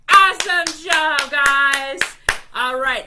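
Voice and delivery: big excited praise after the song; loud cheer. Real, not acted.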